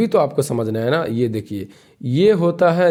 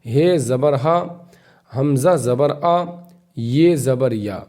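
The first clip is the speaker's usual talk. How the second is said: slow, deliberate reading of each letter with zabar; slow syllable drill; slower than usual. Shown as a demonstration. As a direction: spell out every letter and its sound, slowly, for beginners. Drill continues. (آہستہ آہستہ حرف اور زبر کی آواز پڑھانا)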